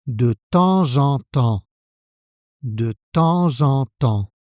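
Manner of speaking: "De temps en temps" with liaison, no P or S; model phrase. Shown as a demonstration. Teacher to learner, modelling the phrase: careful liaison. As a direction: link "temps en" with a z. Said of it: "souvent mal prononcée".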